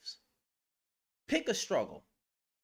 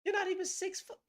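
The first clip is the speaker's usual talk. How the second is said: mocking taunt; 13 semitones higher than usual. Real, not acted. Mocking the man's height.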